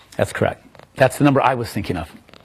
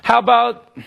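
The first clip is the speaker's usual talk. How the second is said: imitating the lady's challenge; 8 semitones higher than usual. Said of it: "she said".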